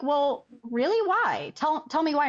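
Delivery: a lightly voiced coaxing question; surprised challenge. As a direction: coax her to explain why. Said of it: "And I'm like".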